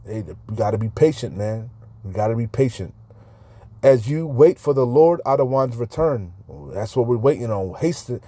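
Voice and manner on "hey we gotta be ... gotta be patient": softer, lower and fast, talking to himself; hushed self-reminder after the verse; quiet aside. Real, not acted. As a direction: murmur it as an aside to yourself.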